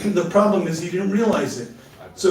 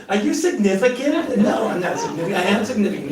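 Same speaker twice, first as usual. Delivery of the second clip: laughing mock question; 3 semitones higher, faster than usual. Mocking the term significant.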